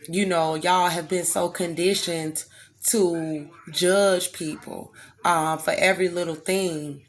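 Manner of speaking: strained, tight voice from effort; pushing through a sore, strained throat. Real, not acted. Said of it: "It's, it's actually straining my throat right now".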